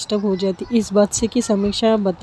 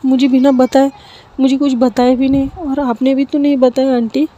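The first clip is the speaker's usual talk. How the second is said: a slightly raised voice, hurt and disbelieving; pleading with the aunt, stunned and hurt; upset, close to tears; 4 semitones higher than usual. Acted. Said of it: "थोड़ी सी emotional हो जाती है और थोड़ी सी रोने".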